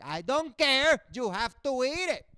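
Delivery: hammed-up strict dad; imitating angry dad. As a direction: lay down the law. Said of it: "He's like".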